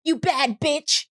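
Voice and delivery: high-pitched giveaway-host proclamation; Oprah. Retold or imitated. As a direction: hand out prizes, stretching each line. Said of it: "Oprah. You know when she was like".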